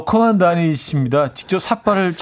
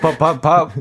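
ordinary talk, nothing marked

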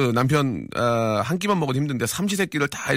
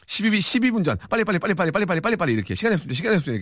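high, rapid-fire urging; frantic hurrying; 8 semitones higher, faster than usual. Acted. Host reads a listener's rush message, high frantic hurrying. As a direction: rattle it off as if time is running out.

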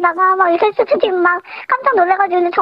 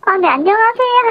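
anonymous caller, pitched-down voice; deep pitch shifted; 3 semitones higher than usual. Real, not acted. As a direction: voice changer pitched down. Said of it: "음성 변조 들어가도록 하겠습니다". (음성 변조된 낮은 목소리)

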